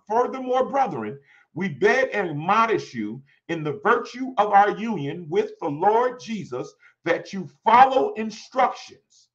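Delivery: declaimed, with the last word drawn out; emphatic scripture reading. Real, not acted. Preacher reading First Thessalonians four and one, declaimed with emphasis. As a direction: read it out firmly to the congregation.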